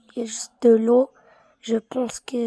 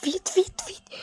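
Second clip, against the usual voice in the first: panicked; 8 semitones higher than usual. Real, not acted. Panicked urging.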